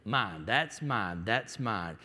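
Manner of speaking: a light mock of a child's grabby declaration; possessive toddler. Child fighting a sibling over a toy, lightly mock possessive. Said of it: "declaration that defines all arguments".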